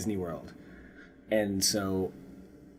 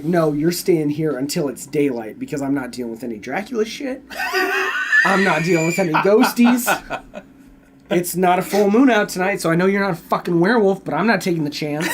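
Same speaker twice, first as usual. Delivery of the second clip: laughing rant; 3 semitones higher, 4 dB louder than usual. Pretend. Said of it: "I'd be like".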